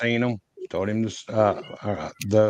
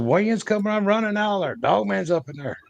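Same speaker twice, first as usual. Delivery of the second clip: retold panic; 7 semitones higher than usual. Retold frantic report of dog man.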